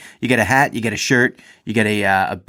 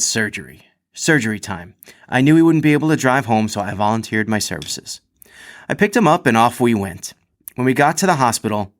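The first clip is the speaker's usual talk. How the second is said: animated anecdote read from the page; story read-aloud. A narrator's reading. Reads athlete's written story aloud.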